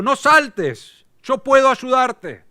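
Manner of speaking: mock shout. Rescuer calling to the man on the bridge, mock shout. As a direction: call out to stop the jumper, hammed up. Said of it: "le gritó y le dijo".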